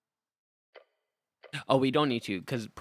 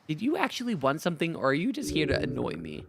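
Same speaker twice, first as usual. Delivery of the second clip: lightly voiced annoyed goblin; fed-up goblin, a bit higher; goblin bard voice; 4 semitones higher than usual.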